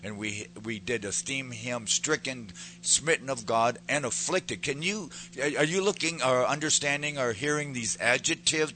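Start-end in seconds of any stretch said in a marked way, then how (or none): 0.0-4.6 solemn preached reading of scripture. Acted. Preacher reading Isaiah aloud to his church, solemn. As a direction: read it out as holy text to the congregation.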